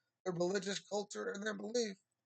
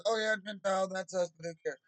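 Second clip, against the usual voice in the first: dismissive pastor; 4 dB louder than usual. Retold or imitated. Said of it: "a pastor that probably just skimmed".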